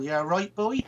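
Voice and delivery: broad rural Suffolk accent; put-on Suffolk accent. Shown as a demonstration. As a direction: lay the Suffolk accent on thick. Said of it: "if I really put it on".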